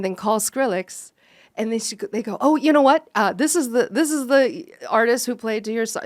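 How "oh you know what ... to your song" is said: excited pitch. Retold or imitated. Management pitching to a music producer.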